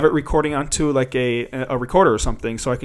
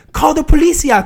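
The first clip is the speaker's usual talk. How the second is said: high, loud mock cry for police; imitated yelling; 12 semitones higher, 6 dB louder than usual. Passenger to people outside, mock yell out the window. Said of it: "she's yelling out the window".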